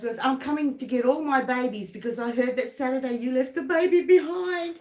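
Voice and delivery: high, laughing retold threat; laughing mock threat. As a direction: playfully repeat the friend's threat, giggling. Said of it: "He goes".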